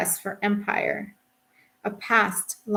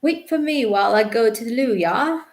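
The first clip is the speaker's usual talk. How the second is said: higher, louder refined English call; raised, high-pitched English shout-over; shouted across; 4 semitones higher, 5 dB louder than usual. A narrator's reading. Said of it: "shouts over to me".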